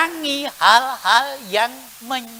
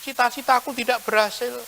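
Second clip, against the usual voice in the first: soft, whiny lament about a hard life; a quiet, sorry-for-yourself grumble; self-pitying complaint; 9 dB quieter than usual. Retold or imitated. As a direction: moan quietly about your bad luck. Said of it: "Jangan mengatakan".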